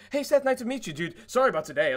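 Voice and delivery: loud, high, gushing fake sympathy; mock overeager. What an asshole would tell knocked-out Seth, mock overeager and loud. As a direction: imitate an obnoxiously chirpy well-wisher. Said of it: "I wasn't like".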